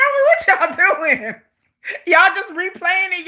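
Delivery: slow, laughing mock question; laughing tease. Teasing the fans for replaying, slow laughing question. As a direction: tease the fans through giggles.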